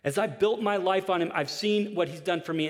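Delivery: passionate friend's words. Retold or imitated. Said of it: "he's like".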